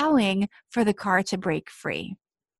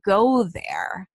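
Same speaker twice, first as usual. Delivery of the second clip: whispering. Real, not acted. Urging listener to let go.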